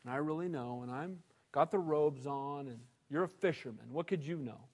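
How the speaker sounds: low, soft, smug voice; proud Pharisee. Retold or imitated. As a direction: look down your nose at a fisherman. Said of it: "really proud of themselves".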